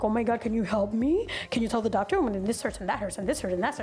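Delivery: flustered patient. Retold or imitated. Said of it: "she had a heavy accent".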